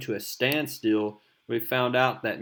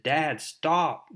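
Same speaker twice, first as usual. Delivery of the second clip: higher, lightly acted plea; pleading Harry Osborn; 5 semitones higher than usual. Son pleading with his monstrous father, higher and urgent. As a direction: urge him to stop, pitched up. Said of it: "Harry continues to talk to the Green Goblin".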